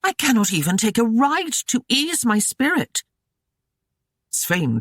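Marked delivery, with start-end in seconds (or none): 0.0-3.0 snarling. A narrator's reading. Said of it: "Gwyneth snarled".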